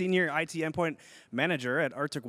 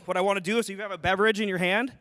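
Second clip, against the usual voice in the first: announcer welcome; 3 semitones higher, 5 dB louder than usual. Real, not acted. Toast and welcome to stage.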